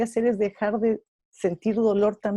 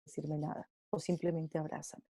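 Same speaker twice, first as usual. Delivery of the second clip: much softer, hushed grieving plea; grieving friend; 9 dB quieter than usual. Retold or imitated. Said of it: "María Claudia me va a decir".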